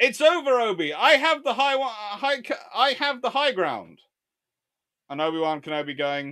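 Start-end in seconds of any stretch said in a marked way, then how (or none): 0.0-4.0 very high, loud, stumbling shout. Acting out a film scene, the character shouting from above: imitating Anakin shouting. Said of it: "Anakin standing up there shouting to Obi-Wan Kenobi".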